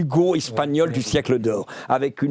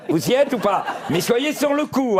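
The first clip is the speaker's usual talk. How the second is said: laughing; 8 semitones higher than usual. Real, not acted. Laughing, coaxing the audience.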